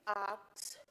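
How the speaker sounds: pointed slow reminder; drawn-out kindly. Real, not acted. Chair drawing out instruction.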